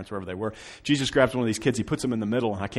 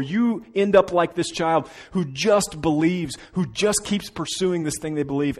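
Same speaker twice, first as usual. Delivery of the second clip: preaching at full force; 7 semitones higher, 8 dB louder than usual. Acted. Preaching builds to a climax.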